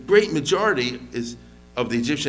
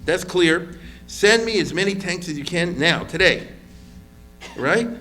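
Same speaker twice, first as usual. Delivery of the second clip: eager, urgent push for more tanks; Sharon urging; 3 semitones higher than usual. Retold or imitated. Sharon demanding tanks from the other generals, urgent. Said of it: "Now Sharon says like this".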